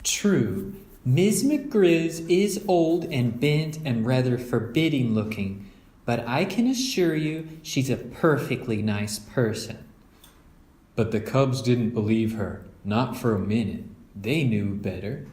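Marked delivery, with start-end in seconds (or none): 0.0-9.8 calm the cubs' fears gently; Mama reassuring. Acted. Mother reassuring the cubs about Miz McGriz, kind.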